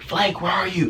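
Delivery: calling a name. Acted. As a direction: call as if searching for a lost dog. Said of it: "I'm fucking calling the Flake's name".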